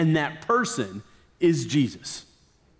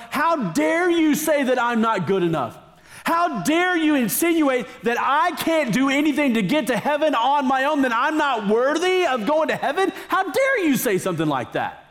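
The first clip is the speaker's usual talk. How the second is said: higher, mildly imitated outrage; mock indignation; 6 semitones higher than usual. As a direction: parody offended critics with a touch of fury. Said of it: "gets them all mad about saying".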